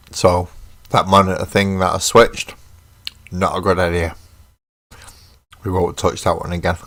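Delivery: talking while crunching snacks; crunching chips. Real, not acted. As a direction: speak between crunchy bites. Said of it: "Sorry for the crunching".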